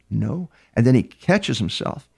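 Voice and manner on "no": softly imitated one-word denial; real low voice. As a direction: answer quietly, as if retelling a suspect's reply. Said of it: "In a real low voice".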